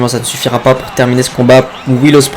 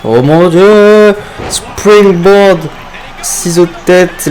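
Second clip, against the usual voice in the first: excited; 6 semitones higher, 3 dB louder, much slower than usual. Real, not acted. Commentator reacts to springboard move.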